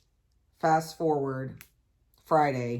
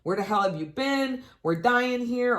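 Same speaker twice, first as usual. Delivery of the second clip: voicing the dogs; 7 semitones higher than usual. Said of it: "They're like".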